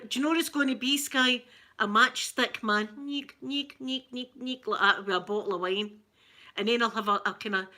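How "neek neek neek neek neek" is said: higher, repeated "neek" noise; little squeaky drawing noises. Shown as a demonstration. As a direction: make tiny repeated sketching sounds. Voices noise while drawing stick man.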